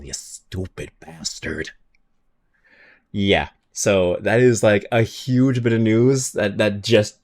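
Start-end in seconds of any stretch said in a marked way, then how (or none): 0.0-1.7 much softer, slow mock insult. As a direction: toss it off under breath. Mock insult after hopeful claim.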